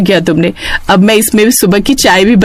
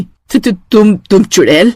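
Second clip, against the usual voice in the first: mild terrified stutter; frightened stammer. Acted. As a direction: stammer in fear. Widow stammers at the witch. (डर से हकलाती विधवा)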